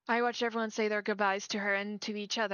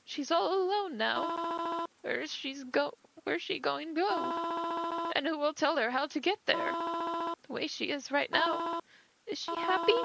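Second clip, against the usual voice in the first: higher and slow, holding back tears; a mother on the edge of crying; slow, tearful mother; 6 semitones higher, slower than usual. Acted. Bereaved mother asks the stranger about her daughter, slow and tearful.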